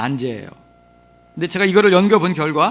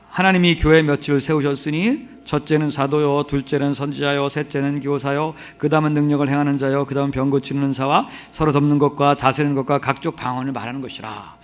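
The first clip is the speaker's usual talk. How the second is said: level, monotone Bible reading; chanted-style reading, falling at the close; scripture recitation; 3 semitones lower than usual. Real, not acted. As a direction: recite the verse on one steady note. Reads the Bible passage aloud.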